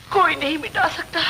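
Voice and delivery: a touch of crying on the repeat; tearful repeat. Acted. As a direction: voice catching with a sob. Mother repeats line, voice breaking.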